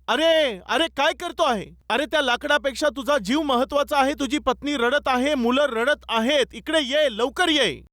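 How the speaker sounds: mildly acted urgent call; half-hearted crowd yell; villagers calling out. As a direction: imitate villagers urging a man ashore. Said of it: "असं ते ओरडू लागल्यावर".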